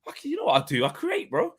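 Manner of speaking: swaggering imitation, pitched well up; imagined Henry defending Bruno, high cocky mock voice. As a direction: brag like a star who knows he's the best. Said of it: "Henry saying".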